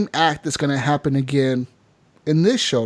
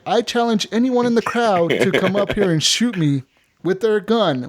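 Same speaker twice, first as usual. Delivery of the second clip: showman's challenge; 5 semitones higher than usual. Retold or imitated. Magician challenges the crowd.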